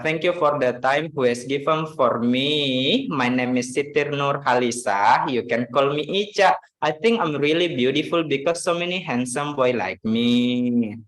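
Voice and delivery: lightly imitated Makassar accent; Siti Nur Halisa. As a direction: speak English with a hint of Makassar lilt. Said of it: "Dia bahasa Inggrisnya kayak gini".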